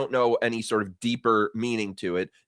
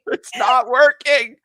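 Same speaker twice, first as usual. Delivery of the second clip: mock despair; 10 semitones higher, 7 dB louder, slower than usual. Real, not acted. Mock lament at the joke.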